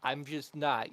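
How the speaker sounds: exaggerated knowing sarcasm, slowing down; sarcastic. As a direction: lay the irony on thick. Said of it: "I should use my sarcasm voice".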